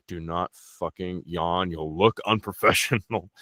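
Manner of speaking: low-key, slow warning to oneself; stern self-scolding. Acted. Man warning himself not to yawn in an interview, mildly stern. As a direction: tell yourself off slowly, under control.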